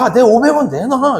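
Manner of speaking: put-on high, slow whiny demand from a boy; student demanding his coin back, whiny and high; whiny kid. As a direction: drag it out like a pouting student. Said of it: "이러고".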